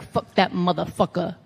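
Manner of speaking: slow, drawled wrestling-coach voice; Dusty Rhodes. Retold or imitated. Trainer on Bill DeMott, slow and dismissive impression. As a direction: lightly put on an old trainer's drawl. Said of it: "this is a Dusty impression".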